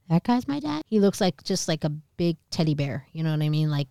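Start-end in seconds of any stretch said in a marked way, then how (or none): 0.1-0.8 high-pitched disbelieving question; incredulous child. Retold or imitated. Child learns giant is dad, incredulous. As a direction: question it in astonishment.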